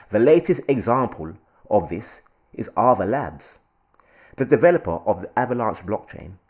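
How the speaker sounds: mildly put-on posh English newsreading. Host reading Avalanche article to viewers, posh voice. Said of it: "You like my posh voice?".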